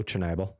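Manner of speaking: Chernobyl said with a clear L at the end; Chernobyl, tidied up with its final L sounded; corrected pronunciation. Shown as a demonstration. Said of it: "put an L in that though".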